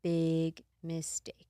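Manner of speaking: slow, hushed warning; ominous whisper. Acted. Telling a scary story, slow ominous whisper.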